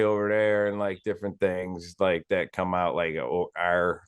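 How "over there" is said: Midwestern accent. Shown as a demonstration. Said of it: "we say".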